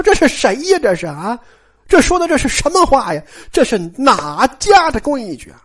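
a mother-in-law's outraged demand; trembling with rage. Retold or imitated. Aunt Xue scolding the daughter-in-law through the window, voice shaking with rage. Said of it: "气得就是浑身哆嗦呀，声都变了".

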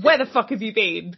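mock-furious, hammering the question; angry demand. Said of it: "She's like".

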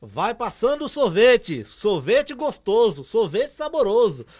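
slow, drawn-out street vendor call; ice-cream car announcer. Retold or imitated. Ice-cream car calling through the streets, slow vendor chant. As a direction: stretch it out like a loudspeaker ad. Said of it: "aí ele falava assim".

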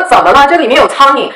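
indignant, deliberately audible complaint; deliberately loud complaint. Retold or imitated. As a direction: pitch it up so the whole place hears. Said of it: "然后我故意说的声音很大".

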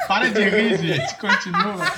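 stifled giggles. Real, not acted. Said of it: "já começa a rir".

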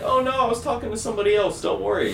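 high, bright fake-innocent hello; excited stoned greeting. Stoned teen answering grandma's call, high and overexcited. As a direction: sound way too excited to be normal. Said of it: "you sound really excited and, like, energized".

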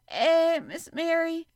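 high, loud frightened cry; half crying. A narrator's reading. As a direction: gasp out her name in alarm. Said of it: "she said, half crying".

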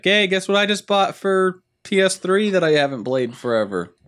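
high-pitched, hammed-up excitement; excited announcement. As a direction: play up thrilled news to a friend. Acting out a future excited text.

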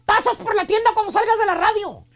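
lightly voiced bossy wife, firm on the name; mock authoritarian wife. Wife sends Braulio for diapers and milk, mildly authoritarian. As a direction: call him out like a wife giving orders. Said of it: "Te dice con voz autoritaria".

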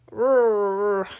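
loud growling roar; werewolf roar. Acted. Werewolf warning the group, roaring. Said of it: "growl and gesticulate urgently".

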